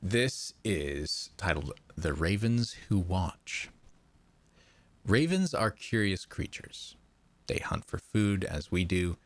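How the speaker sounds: hushed storyteller reading a creepy opener; story narration. Acted. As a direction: read it like a spooky tale to the chat. Reads a horror story aloud.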